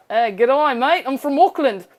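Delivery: attempted New Zealand accent; badly faked Kiwi accent; mock Kiwi accent. Shown as a demonstration. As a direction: have a go at a cheery Kiwi greeting. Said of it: "that's how you do the Kiwi accent".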